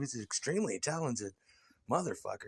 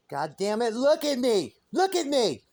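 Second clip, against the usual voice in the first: loud, high, bossy screaming; screamed tantrum; 8 semitones higher, 7 dB louder than usual. Acted. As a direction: throw a diva fit, yelling orders from the stage. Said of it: "I call it tantrums and tiaras".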